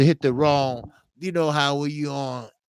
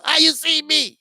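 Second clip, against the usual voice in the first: high startled "How you see me?"; startled quote; 13 semitones higher, 4 dB louder than usual. Retold or imitated. Retelling a caught viewer's startled yelp. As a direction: squeal it out like you just got caught. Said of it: "that motherfucker jumped up".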